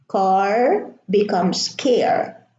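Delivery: car with an open ah, then care with an air sound; vowel contrast demo. Shown as a demonstration. Teacher contrasting car and care for the class. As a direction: slowly set car against care. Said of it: "changes the pronunciation".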